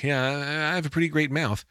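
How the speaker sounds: high, teasing boast; jokingly showing off; playful brag. Retold or imitated. Playful joke to the receptionist.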